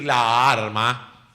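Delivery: la arma with both As sounded; double A in la arma. Shown as a demonstration. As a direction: keep the two As apart in la arma. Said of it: "evitar esa doble A".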